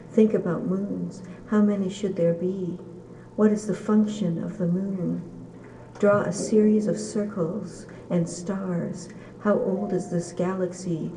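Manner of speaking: measured poetry reading with little pitch movement; poem reading. Acted. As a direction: read each short line as verse, evenly and deliberately. Reads a poem aloud.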